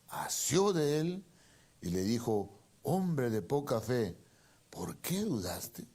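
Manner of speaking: loud, rising preacher's reading of the passage; fervent Bible reading; dramatic scripture reading. Acted. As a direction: proclaim the Bible story to the church. Reads Mateo 14 aloud.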